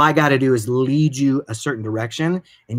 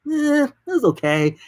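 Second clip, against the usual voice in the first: disappointed; 13 semitones higher than usual. Retold or imitated. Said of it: "you're like".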